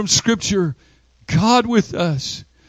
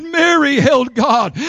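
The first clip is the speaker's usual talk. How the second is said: repeated louder. Shown as a demonstration. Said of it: "I said".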